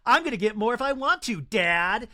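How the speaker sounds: defiant bratty daughter, lightly voiced; mild teen sass; mock rebellious teen. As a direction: toss it back at dad like a sulky teen. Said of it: "that rebellious youth".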